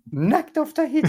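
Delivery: high dramatic trailer title; trailer announcer voice. Retold or imitated. Mock romantic trailer title.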